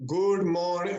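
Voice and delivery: stiff, drawn-out classroom greeting; mechanical. Retold or imitated. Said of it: "It's very mechanical".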